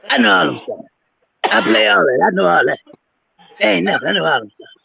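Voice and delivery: impression of Mister Brown. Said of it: "is gonna give us an impression".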